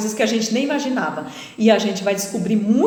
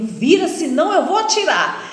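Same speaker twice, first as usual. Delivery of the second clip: retold threat at gunpoint; 6 semitones higher, 3 dB louder than usual. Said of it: "apontou pra mim".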